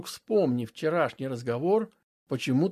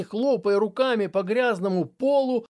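plain reading voice

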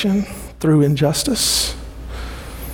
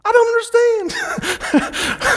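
much higher, slow, drawn-out whine; bewildered whine; much slower than usual. Retold or imitated. Habakkuk answering God, slow bewildered whine. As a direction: stretch it out like a baffled complaint. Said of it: "you know what Habakkuk says?".

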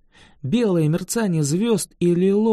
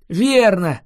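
delighted; 3 semitones higher, 6 dB louder than usual. A narrator's reading. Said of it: "обрадовался Элеонор".

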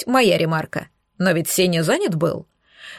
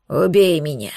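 хриплая мольба; 5 semitones lower than usual. Acted. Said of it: "прохрипел в ответ поверженный Кракен".

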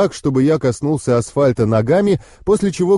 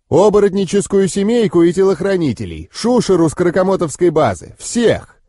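menacing demon threat; 5 semitones higher than usual. Acted.

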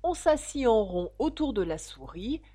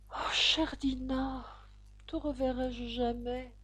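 high, soft, drawn-out lament; sad; 6 semitones higher, 3 dB quieter, slower than usual. A narrator's reading. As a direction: pine slowly for a missed pet. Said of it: "se dit-elle tristement". (lamentation triste, douce et aiguë)

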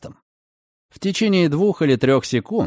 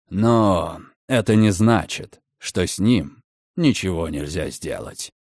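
sinister hint; 5 semitones lower, slower than usual. Acted. Redfern hints at a plan to Margaret, low and sinister. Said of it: "зловещий огонёк".

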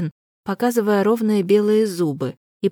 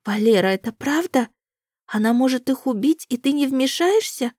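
frightened; 7 semitones higher than usual. A narrator's reading. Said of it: "сжалось от страха".

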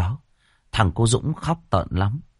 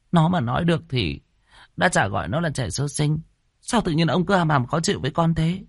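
high-pitched, hurt protest; indignant retort; 9 semitones higher than usual. Acted. Wife asks husband why he's grumpy, indignant. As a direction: object in a high, aggrieved wife's voice.

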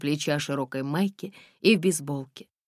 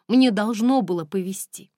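stubborn; 5 semitones higher, 5 dB louder than usual. A narrator's reading. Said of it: "упрямо сказала она".

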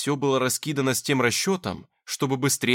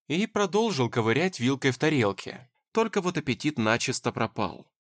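plain reading voice

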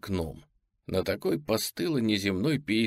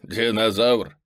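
smirking; 5 dB louder, slower than usual. Acted. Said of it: "усмехается зверюга".

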